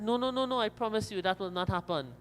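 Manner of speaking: quick repeated no's, pitched high then settling; acted earnest assurance; hasty reassurance. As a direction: brush the worry away with a promise. Rabbit hastily reassures the crocodile.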